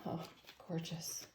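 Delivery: breathless whispered "gorgeous"; whispered awe. Real, not acted. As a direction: whisper it in wonder. Awed by the cards.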